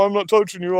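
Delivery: sing-song schoolyard taunt leaning on "touching"; childish taunt. Retold or imitated. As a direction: needle them like a bratty kid, punching "touching". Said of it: "just gonna insult you and go".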